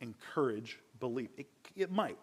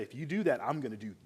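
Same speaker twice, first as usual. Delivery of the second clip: mild threatening tone, words cut off; threat. Shown as a demonstration. Father threatens his son to force obedience, mildly menacing. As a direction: let the threat hang unfinished. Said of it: "you hear the threat in that?".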